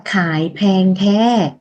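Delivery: khải phèn the said slowly in Lao tones; slow model read of khải phèn the; Lao phrase. Shown as a demonstration. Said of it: "mình nói là". (đọc chậm câu khải phèn the)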